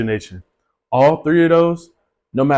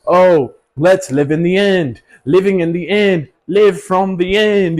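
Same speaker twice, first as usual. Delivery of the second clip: mocking imitation; 3 semitones higher, slower than usual. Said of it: "Everybody talks about".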